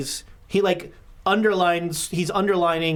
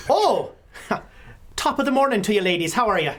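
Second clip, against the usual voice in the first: Mickey Mahoney; 2 semitones higher than usual. Acted. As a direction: greet the visitors with showy cheer. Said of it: "the office of one Mickey Mahoney".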